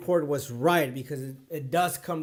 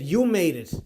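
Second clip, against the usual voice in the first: louder, punchier "You made it" as the student's cheer; excited retelling; 6 dB louder than usual. Retold or imitated. Tutor relays his student's overwhelmed message, excitedly. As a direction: pass on the student's joyful news with a lift. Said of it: "he's crying and, uh, he's overwhelmed".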